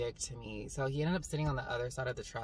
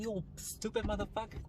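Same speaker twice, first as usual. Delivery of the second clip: high-pitched retold insult; mock-outraged, pitched way up; going off on him; 9 semitones higher, 4 dB quieter than usual. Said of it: "So I was just going off".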